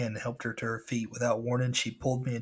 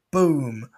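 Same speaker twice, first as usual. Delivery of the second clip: shouted boom; loud boom sound effect; 3 semitones higher, 9 dB louder than usual. Retold or imitated. Narrator voicing boats flipped over. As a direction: slam the word like a crash.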